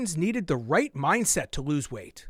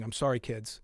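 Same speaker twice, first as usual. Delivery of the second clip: ordinary talk, nothing marked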